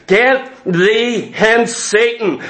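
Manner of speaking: "Get thee hence" drawn out slowly and firmly; slow firm rebuke. Shown as a demonstration. Preacher showing the flock how to rebuke: slow, firm command. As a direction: command him off, slow and steady. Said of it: "you better start saying".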